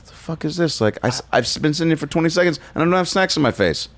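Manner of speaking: high-pitched impatient kid imitation; put-on bratty kid voice; spoiled kid. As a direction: complain high and quick like a spoiled child. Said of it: "they're just like".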